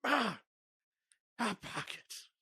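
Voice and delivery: high excited yelp; mock excitement. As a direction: squeal at hot pockets. Acting excited gamer.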